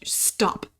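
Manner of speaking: a second hushed stop; whispered stop. Real, not acted. Begging her generation to quit, whispered. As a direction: whisper the single word stop. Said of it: "I'm looking at you".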